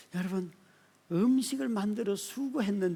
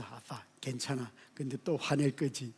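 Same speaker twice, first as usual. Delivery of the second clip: son's words; 5 semitones lower, 7 dB quieter than usual. Retold or imitated. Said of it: "우리 아들이 하는 말이에요".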